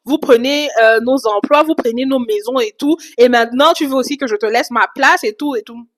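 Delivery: reproches retransmis, un peu plus forts et plus aigus; colère imitée. Retold or imitated. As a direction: imite une femme qui s'emporte et accuse. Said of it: "Elle est rouge de colère". (accusations rejouées avec une colère modérée)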